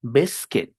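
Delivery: biscuit said "BIS-kit"; correct pronunciation. Shown as a demonstration. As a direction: silent U in biscuit, short I. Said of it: "suenan I".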